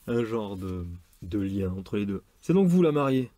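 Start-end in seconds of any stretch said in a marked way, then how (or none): 2.4-3.3 higher, louder exclamation; exclaiming. A narrator's reading. Surgeon in a romance addressing the bride, exclaiming. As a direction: cry it out as a sudden realisation. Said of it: "s'écria Jérémy".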